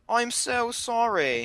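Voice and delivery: shy, put-on English accent, slowed down; mock English accent. The speaker apologising in a mock sexy English accent. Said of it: "I have to do my sexy English accent".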